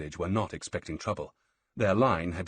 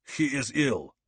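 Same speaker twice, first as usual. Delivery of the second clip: dismissive; 6 semitones higher, 3 dB louder, slower than usual. Acted. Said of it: "His tone was dismissive".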